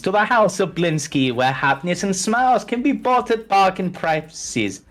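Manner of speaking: theatrical, sing-song toyshop welcome; accented toymaker. Acted. Toymaker welcoming customers to the shop, accented and showy. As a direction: greet customers as an eccentric foreign toymaker. Game master plays shopkeeper Blinsky.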